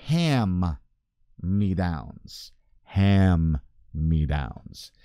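"Ham-me-downs" very slow, with a long loud "Ham"; drawn-out demonstration. Shown as a demonstration. Speaker spelling out his own slip for viewers, "Ham-me-downs" slowly drawn out. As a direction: stretch out "Ham-me-downs", pausing after "Ham". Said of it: "if you say it fast like me, it's".

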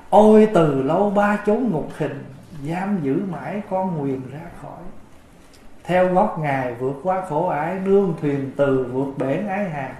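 reciting the repentance verse in a measured way; verse recitation. Acted.

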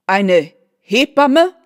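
a slow, loud, disbelieving cry; the mother cries out in shock at her daughter's request; shocked exclamation. A narrator's reading. Mother to daughter, loud slow disbelieving cry. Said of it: "rief die Frau von G".

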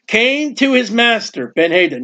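measured scripture reading, word by word; slow careful reading. Shown as a demonstration. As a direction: read it slowly and deliberately. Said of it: "I gotta read this slowly".

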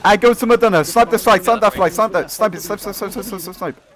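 loud, high battle command; shouting orders. Real, not acted. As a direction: bark the orders across the field.

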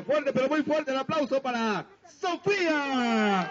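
high, slow stretched-out announcer call; silly clown announcer. Acted. Clown announcing applause, drawn out.

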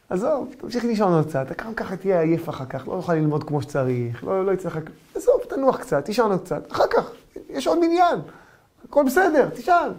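rising, sweet-talking tempter; coaxing evil inclination. Acted. Evil inclination tells the rabbi to keep sleeping, rising coaxing. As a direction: lull him back to sleep.

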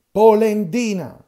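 Polendina yelled very loud and slow, high; slow taunting bellow at Geppetto; drawn-out shouted insult. Acted.

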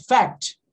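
"fact" with a very light k before the t; barely touch the c in "fact"; subtle C. Shown as a demonstration. Teacher explaining the C is subtle, light-consonant demo. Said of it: "É um C bem sutil".

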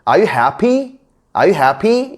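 "Are you happy?" rising onto a high "happy"; stress at the end. Shown as a demonstration. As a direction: lift the pitch on "happy" as a question. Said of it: "뒤에 끝에가 강세가 있는데". (끝의 "happy"에 강세를 두고 올려 묻기)

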